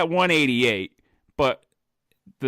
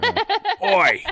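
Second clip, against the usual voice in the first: attempted British accent; 4 dB louder than usual. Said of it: "I can't do a British".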